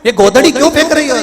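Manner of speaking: put-on high, very fast questioning child; small child. Small child asking mother about the quilt, high child voice. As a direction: fire the question off in a high kid voice. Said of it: "छोटा बच्चा पूछेगा".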